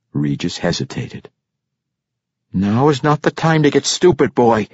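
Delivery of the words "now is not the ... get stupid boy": high-pitched paternal scolding. A narrator's reading. Drunk father rebuking his boy, scolding. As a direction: scold him in a raised character voice. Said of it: "Ivor Breen scolded".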